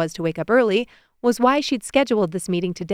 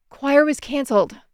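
put-on huffy child; 6 semitones higher than usual. A narrator's reading. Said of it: "Bailey huffed".

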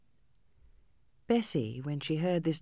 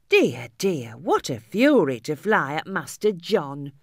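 louder, slower scandalised servant; shocked maid; 8 dB louder, slower than usual. A narrator's reading. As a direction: maid fussing over the fight. Maid scolds girl.

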